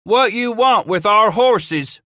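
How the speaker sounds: slow, high, loud demand; shouted demand. Acted. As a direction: drag it out, shouting. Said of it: "Pegleg Smith asked".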